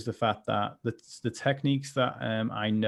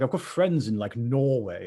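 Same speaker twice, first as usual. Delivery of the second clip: posh voice; 4 dB louder than usual. Pretend. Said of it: "I like your posh voice".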